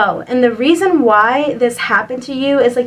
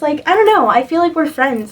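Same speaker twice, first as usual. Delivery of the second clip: getting heated; 3 semitones higher than usual. Real, not acted. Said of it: "I'm getting a little heated right now".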